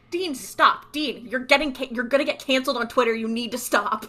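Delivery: urgent mock warning; mock scolding. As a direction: plead with him to stop, half-joking. Mock warning to a fictional character.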